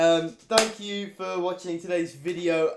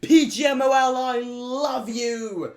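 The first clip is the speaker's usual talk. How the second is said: loud, high joyful shouting; excited yelling; 5 semitones higher, 11 dB louder, slower than usual. Real, not acted. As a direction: yell with pure delight. Celebrating correct prediction.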